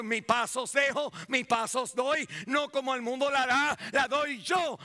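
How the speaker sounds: emphatic preaching, rising phrase by phrase; proclaiming scripture. Acted. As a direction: declare each phrase to the congregation.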